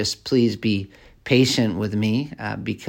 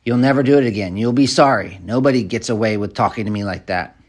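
louder mock threat, hard and menacing; threatening unwholesome speech; 3 dB louder than usual. Shown as a demonstration. Preacher acting out a threat against disrespect, mock angry. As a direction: lean in like a bully warning someone off. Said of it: "Unwholesome speech".

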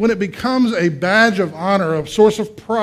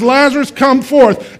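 loud, raised command; Jesus; 6 semitones higher, 6 dB louder, slower than usual. Acted. Jesus summons Lazarus from the grave, loud command. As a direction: call out forcefully, drawing the words out. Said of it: "And so he says".

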